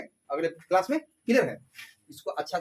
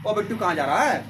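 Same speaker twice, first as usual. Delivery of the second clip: lightly Haryanvi, calling Bittu; a hint of a Haryanvi shout to a friend. Teacher imitating a Haryanvi man calling Bittu, lightly Haryanvi. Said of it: "ऐसे बोला, इस तरह से बोला जाता है".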